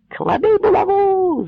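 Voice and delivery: very high, loud slow roar; the mob bellows its demand; roaring crowd. A narrator's reading. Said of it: "знов заревла юрба". (юрба реве своє)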